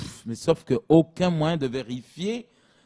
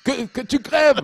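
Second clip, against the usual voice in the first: mock shout; 8 semitones higher than usual. Radicalised prisoner yelling at the guards, hammed up. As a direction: yell it like a furious prisoner.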